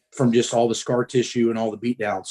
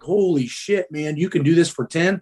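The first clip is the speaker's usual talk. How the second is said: imitated amazed uncle, pitched higher; freaking out; 4 semitones higher than usual. Uncle amazed at his nephew's ten reps, mock freak-out. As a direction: act out an astonished reaction. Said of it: "And he's freaking out".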